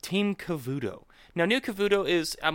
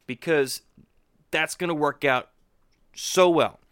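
sarcastic. Real, not acted. Sarcastic remark on troops.

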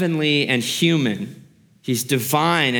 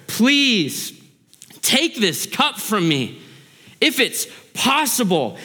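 pleading prayer; 7 semitones higher, slower than usual. Acted. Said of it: "begging his Father".

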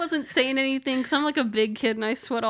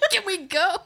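urgent plea; 7 semitones higher, 3 dB louder, faster than usual. Retold or imitated. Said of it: "I'm like".

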